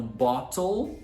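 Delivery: "bottle" with a clear T, slowly; British bottle. Shown as a demonstration. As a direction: sound the T in "bottle". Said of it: "pros britânicos".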